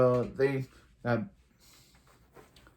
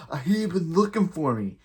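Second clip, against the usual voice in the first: higher and louder, an imitated vibrating superhero voice; cool vibrating voice; 5 semitones higher, 4 dB louder than usual. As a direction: do the Flash's buzzing disguised voice, a bit higher and louder. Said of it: "in his cool vibrating voice".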